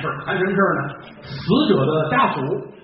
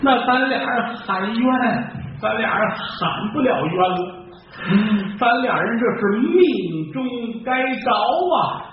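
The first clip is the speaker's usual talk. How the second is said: resigned lament; 4 semitones higher, slower than usual. Acted. Condemned men resigned to fate.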